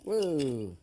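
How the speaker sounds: loud woo of encouragement; excited cheer. Real, not acted. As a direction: cheer him on. Cheering sledgehammer swing.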